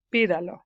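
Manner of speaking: "Pídalo" stressed on PÍ; stress on first syllable. Shown as a demonstration. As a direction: lean on the opening PÍ of "Pídalo". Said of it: "third syllable from the last is stressed".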